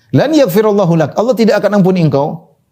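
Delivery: a touch of heated indignation; mild mock anger. Worshipper condemning the sinner, mildly heated. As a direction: act out the worshipper's anger lightly. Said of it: "Dan ini dia emosi".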